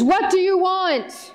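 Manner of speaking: slow, mock-scary wizard demand; loud scary voice. Wizard greeting Dorothy, a half-hearted scary voice. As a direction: try a scary wizard boom. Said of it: "I don't know if I do a loud, scary voice very well".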